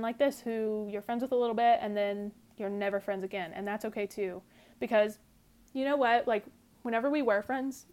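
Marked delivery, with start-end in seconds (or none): 6.3-7.9 talking through a burp. Real, not acted. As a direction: burp while speaking. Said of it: "excuse me, I'm burping".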